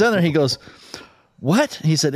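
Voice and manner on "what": put-on high-pitched "eh?" from a deaf old hunter; hard-of-hearing query. Grandpa getting hard of hearing, high puzzled query. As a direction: ask it like you missed every word.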